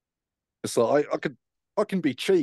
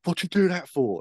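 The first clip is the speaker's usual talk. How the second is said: higher, disbelieving mock mate; a touch of shocked friend; mate Kev asks why he said it, incredulous; 10 semitones higher, 3 dB louder than usual. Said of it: "he was like".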